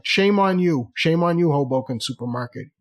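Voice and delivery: mock scolding. Customer scolding the supermarket over salmon prices, mock indignant. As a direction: scold them in playful outrage.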